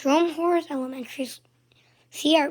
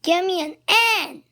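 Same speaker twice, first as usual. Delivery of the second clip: loud, higher cheerleader call; cheer shout; 5 semitones higher, 6 dB louder than usual. A narrator's reading. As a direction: call it out to the stands. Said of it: "shouted the cheerleaders".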